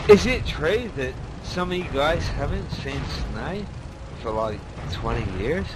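a bad, hammy Australian accent. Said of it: "That was the worst Australian accent ever".

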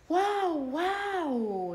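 very high, loud barking; dog bark. Acted. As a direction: yelp like an excited puppy. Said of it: "ladra Bizcocho". (ladrido muy agudo y fuerte)

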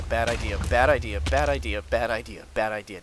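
loud, frantic bad idea chant; panicked shouting. Real, not acted. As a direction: yell it over and over in panic. Panicked repeated warning.

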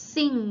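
"Sing" ending in ng, no hard g; final ng sound. Shown as a demonstration. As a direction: model "Sing", closing on Thai ง. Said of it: "ออกเสียงเหมือนงองู".

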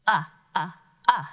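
short "uh, uh, uh," clipped and repeated; short u sound. Shown as a demonstration. Teacher drills the vowel sound for students. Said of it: "the U".

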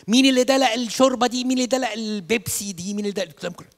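high loud nursery teacher scold, fading down; shrill demand at the kids, easing off. Retold or imitated. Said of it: "تقول". (مدرسة حضانة بتزعق للعيال)

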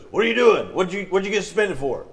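acted parental interrogation; retold stern questioning. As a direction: question the kid like a displeased father. Dad questioning son in retold story.

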